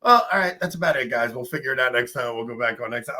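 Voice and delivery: lightly voiced casual outro; breezy wrap-up to the audience; a hint of a show host signing off; mock sign-off. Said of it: "I really should have just been like".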